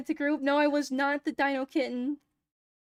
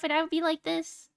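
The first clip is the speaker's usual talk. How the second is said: uwu voice; 4 semitones higher than usual. Shown as a demonstration. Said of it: "I would do the Uwu voice".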